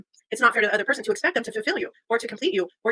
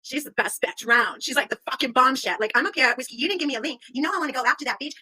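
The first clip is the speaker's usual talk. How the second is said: put-on higher, sassy valley girl voice; 4 semitones higher than usual. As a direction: brag and threaten like a sassy girl. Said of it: "She's gonna be like".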